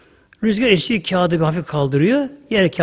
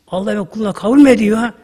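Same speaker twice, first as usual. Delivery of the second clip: amazed; 4 semitones higher, 5 dB louder, faster than usual. Acted. Bişir overwhelmed by the news.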